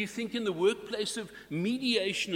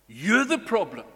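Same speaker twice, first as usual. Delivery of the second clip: accusing; 7 dB louder than usual. Pretend. Voicing an accusing peace breaker.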